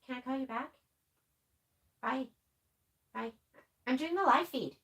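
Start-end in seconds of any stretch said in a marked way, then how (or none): 0.0-3.3 dodging a caller. Real, not acted. Brushes off a phone call mid-stream.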